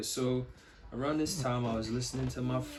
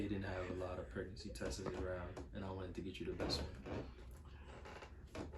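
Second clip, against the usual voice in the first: soft and sweet; 3 semitones lower, 8 dB quieter than usual. Real, not acted. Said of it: "So sweet".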